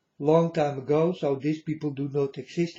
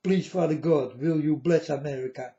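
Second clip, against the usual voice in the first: humble request; 4 semitones lower than usual. Shown as a demonstration. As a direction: gently ask it as a favour. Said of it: "But you do not ask".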